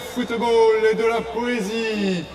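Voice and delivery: town crier. Acted. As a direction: announce it like a medieval herald. Announcer opens second half.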